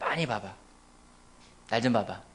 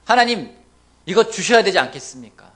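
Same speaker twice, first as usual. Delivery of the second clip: loud insistent pleading; persuading God; 11 dB louder than usual. Acted. Believer loudly bargaining with God, insistent. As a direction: push God to give in. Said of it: "하나님을 때로는 설득합니다".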